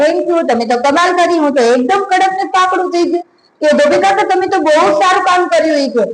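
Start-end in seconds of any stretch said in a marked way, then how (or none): 0.0-3.2 put-on a child thrilled with new crispness; happy pocket. Pocket thanks the washerman, higher and delighted. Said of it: "ખિસ્સું હવે હસવા લાગ્યું". 3.8-5.8 put-on higher, bright child's thanks; happy pocket. Pocket praises the washerman, higher and delighted. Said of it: "ખિસ્સું હવે હસવા લાગ્યું".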